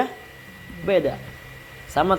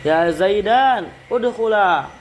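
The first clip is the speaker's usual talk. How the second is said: calling in; 3 semitones higher, slower than usual. Shown as a demonstration. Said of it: "Ini dipakai orang-orang".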